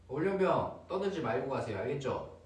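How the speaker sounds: firm drill instructor, politely. Retold or imitated. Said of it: "이런 느낌".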